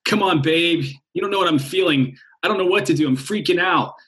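lightly hammed fretting lover; freaking-out mind. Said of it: "And then the mind's like".

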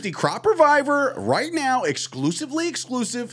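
hammed-up breaking-news read, cracking up; Adam Schefter voice. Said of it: "do it in the Adam Schefter voice".

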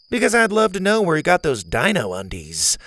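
a hint of a spunky girl; Zeta girl voice.

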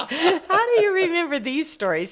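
laughing. Real, not acted. Wife still laughing at her husband's memory, laughing.

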